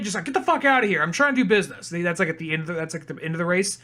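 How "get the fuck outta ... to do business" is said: higher, mock annoyed dismissal; retold irritated brush-off. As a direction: shoo off a pesky relative, half in earnest.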